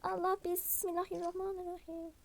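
breathless gasp, then a rushed prayer. Pretend. Doll gasps and prays after the burn. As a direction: gasp and call on God in a hurry. Tastes a drink that is hot.

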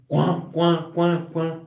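quacking like a duck. Retold or imitated. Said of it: "los patos le hacen".

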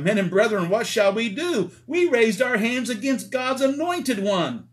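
high, anguished cry of guilty men; people crying out. Retold or imitated. Crowd at Pentecost crying out to Peter in anguish. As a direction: plead in dismay, voice breaking upward. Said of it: "the people cried out".

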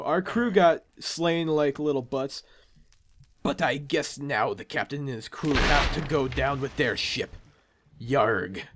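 sinking sea-dog farewell; pirate. Acted. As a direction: mourn the crew as a lightly voiced pirate. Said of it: "a pirate impression".

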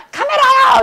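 high, drawn-out mock student answer; wrong answer demo. Shown as a demonstration. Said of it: "이러면 안 되고". (높고 길게 빼는 틀린 대답 흉내)

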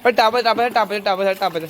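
loud high call to the dog. Real, not acted. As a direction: shout the command to the dog. Calling the dog to jump.

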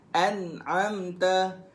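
slow an'amta with ta sounded; drilling an'amta. Shown as a demonstration. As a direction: drag an'amta out evenly. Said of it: "Jangan an'am". (an'amta dibaca perlahan)

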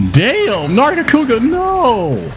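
high, dismayed outcry; dismayed cry. Real, not acted. His partner monster goes down.

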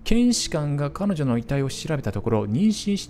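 steady storyteller reading; 物語を語るように朗読; narration read. Acted. Reads ending text aloud.

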